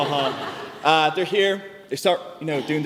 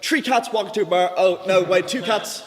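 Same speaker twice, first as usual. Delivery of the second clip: flustered dad; 4 semitones higher, 3 dB louder, slower than usual. Retold or imitated. Flustered dad fumbling the joke.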